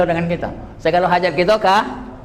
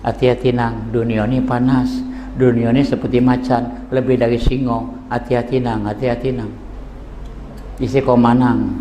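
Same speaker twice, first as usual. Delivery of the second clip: teacher's warning; 4 semitones lower than usual. Retold or imitated.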